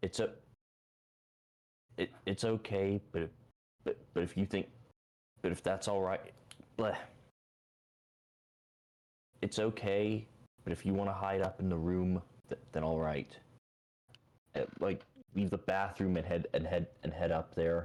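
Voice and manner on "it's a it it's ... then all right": speaking in a whisper. Answering a character in character: whispering back. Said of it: "I kind of whisper back".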